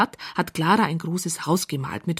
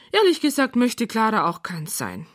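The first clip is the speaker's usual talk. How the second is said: plain reading voice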